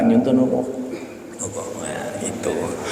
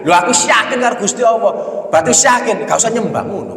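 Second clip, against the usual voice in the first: mocking misguided believer; 6 semitones higher, faster than usual. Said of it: "Sing sembahyang-sembahyang itu durung yakin ngono".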